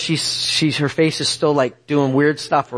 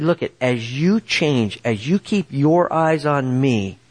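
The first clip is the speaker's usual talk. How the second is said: slow, lightly voiced divine counsel; the Lord; 4 semitones lower, slower than usual. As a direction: speak slowly, as if gently instructing. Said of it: "And he said".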